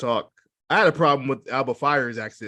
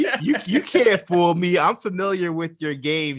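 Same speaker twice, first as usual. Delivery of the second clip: mock suspicious; 3 semitones higher than usual. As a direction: call out the fake feud. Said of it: "you said".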